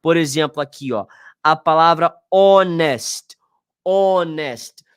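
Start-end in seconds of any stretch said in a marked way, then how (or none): 2.3-4.8 honest said as "onest", silent h, starting on the vowel; honest, h dropped; English honest. Shown as a demonstration. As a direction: say honest with no h sound at all. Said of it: "tem som de vogal".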